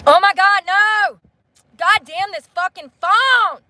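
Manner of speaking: real frustrated outburst. Real, not acted. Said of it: "I'm getting so mad".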